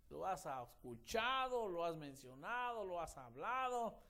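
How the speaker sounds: slow, high, loud drawn-out declarations; emphatic preaching. Acted. Preacher pressing listeners to share the gospel, slow and emphatic. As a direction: stretch each phrase for emphasis.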